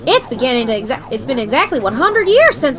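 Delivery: lightly voiced old Southern coot. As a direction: reminisce with a touch of old Southern accent. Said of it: "he's become an old southern coot".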